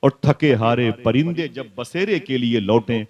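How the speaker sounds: measured couplets, slowing towards the end; declaimed Urdu verse, softening at the close; verse recitation. Acted. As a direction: recite the poem with weight, drawing out the last line. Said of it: "Wasim Barelvi ने एक हदीस शरीफ की तर्जुमानी की थी".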